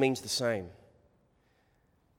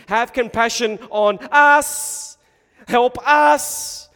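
loud, raised cry for help; desperate plea; 8 semitones higher, 11 dB louder, much slower than usual. Acted. Father begging Jesus to help his child, desperate plea. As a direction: plead at full voice, stretching the words. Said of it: "when he sees his desperation".

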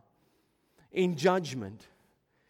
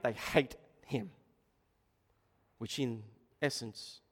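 hushed sermon; 7 semitones lower, 8 dB quieter than usual. Acted. Hushed dramatic preaching.

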